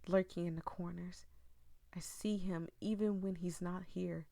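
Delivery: dramatic read-aloud of a creepy tale; eerie storytelling voice; story narration. Acted. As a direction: read it like a ghost story to the viewers.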